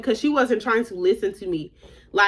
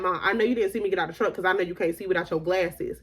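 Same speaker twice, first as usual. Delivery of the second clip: hushed quote; 4 semitones lower, 5 dB quieter than usual. Retold or imitated. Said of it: "Who gonna tell their mama".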